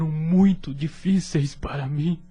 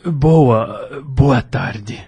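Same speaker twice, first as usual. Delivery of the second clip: awkward greeting; 9 dB louder, much slower than usual. Acted. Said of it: "Um tanto constrangido".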